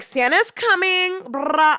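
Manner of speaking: drawn-out, high Santa announcement; excited make-believe. Acted. Adult keeping a child's Santa hope alive, excited.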